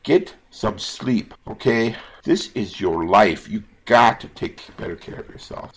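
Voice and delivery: real emotional plea to viewers. Real, not acted. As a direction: plead with them as if their life depends on it. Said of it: "sorry for getting so emotional".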